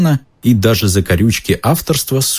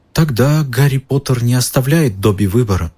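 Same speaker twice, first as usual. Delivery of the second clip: sad elf; 5 semitones higher than usual. Acted. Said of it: "печально сказал эльф".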